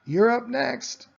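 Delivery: high, slow, loud call. Acted. Amelia telling Justin it is his turn, calling loud and high. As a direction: stretch it out so it carries. Girl calls out across playground.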